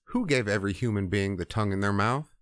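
mock-exasperated rhetorical questioning; mildly frustrated. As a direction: imitate a God losing patience with excuses. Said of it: "God starts getting frustrated with Moses".

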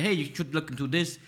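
ordinary talk, nothing marked

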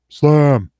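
sharp loud command; called command. Retold or imitated. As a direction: call the move out firmly. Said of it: "he just goes".

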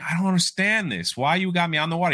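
high-pitched acted complaint; baffled protest. Young man in the water questioning the older man, baffled. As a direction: voice a confused student objecting.

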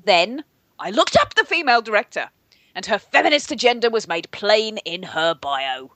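sit up straight and recite it with bitter outrage; rigid-shouldered resentment. Retold or imitated. Cohost reading an angry movie review, stiff and resentful. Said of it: "rigid-shouldered resentment".

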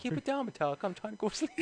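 1 mock complaint. Yelling at noisy neighbour.

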